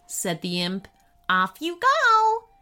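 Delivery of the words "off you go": high, loud, drawn-out dismissal; bossy imp. A narrator's reading. Imp sends the boy to the herd, bossy. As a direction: send them off in a gloating sing-song.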